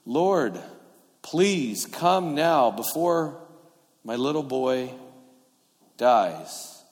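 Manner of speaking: slow, measured plea with pauses; pleading. Acted. Official begging the Lord for his little boy, pleading. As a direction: beg word by word, falling at the end. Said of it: "from the official's point of view".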